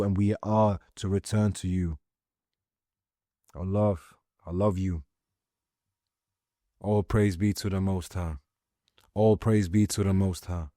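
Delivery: low, hushed prayer to God. Acted. Prays aloud to God.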